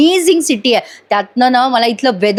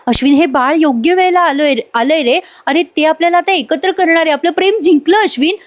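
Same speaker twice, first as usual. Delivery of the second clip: higher, stretched pleading heroine voice, slowing on the vows; Priya triumphant; 5 semitones higher than usual. Acted. Priya convincing Ashwin about the baby, high and pleading. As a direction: plead that their love has won. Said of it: "अश्विनला म्हणत असते प्रिया".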